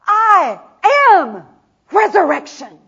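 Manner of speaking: loud, slow, spaced-out declaration; loving proclamation. Acted. Jesus declaring to Martha, loud and slow. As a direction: call her name then hammer each word slowly. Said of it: "remember, he loves her".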